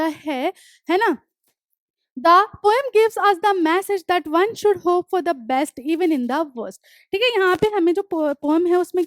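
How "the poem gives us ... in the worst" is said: deliberate dictation pace, each word spaced; slow textbook reading. Acted. Teacher reading the poem notes aloud to students, slow and deliberate. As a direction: read the line out slowly for the class to copy. Reads textbook line slowly.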